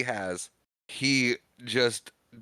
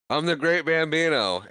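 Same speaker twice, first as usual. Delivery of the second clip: muffled; 6 semitones higher than usual. Retold or imitated. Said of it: "it's slightly muffled".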